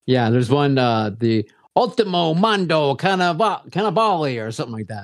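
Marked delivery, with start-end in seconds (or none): 1.8-4.4 halting attempt at Italian. Real, not acted. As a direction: sound out the Italian title clumsily. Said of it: "I don't do Italian".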